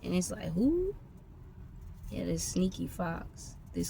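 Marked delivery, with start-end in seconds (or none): 0.5-0.9 stunned who. Real, not acted. Disbelief at who it was.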